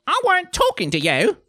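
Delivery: very high, loud snap; angry put-down. Acted. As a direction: silence the one who butted in. Nanny cuts off interrupting Lettuce.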